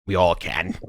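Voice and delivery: lightly voiced talking baboon; reply as the mustached baboon. Baboon retorts to the adventurer, lightly put-on creature voice. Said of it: "what you hear instead is that mustache baboon".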